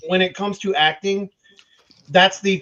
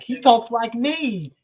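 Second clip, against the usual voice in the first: lightly imitating a friend, slow and higher; James; 4 semitones higher, slower than usual. Friend quotes James's reaction to the Colonel, lightly imitated and drawn out. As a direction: draw it out slowly, pitched up, as a mock quote. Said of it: "James was like".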